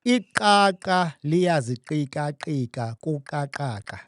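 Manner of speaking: Iqaqa liyaziqikaqika kuqaqaqa said slowly with clicks; slow Xhosa tongue twister, clicking. Shown as a demonstration. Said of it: "teach me that click language".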